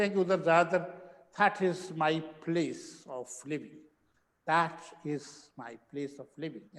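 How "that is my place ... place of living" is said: South Indian "that is my place of living", slow; slow, mild South Indian accent imitation. Teacher imitates South Indian students in a mild South Indian accent. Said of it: "ऐसे बोलते हैं".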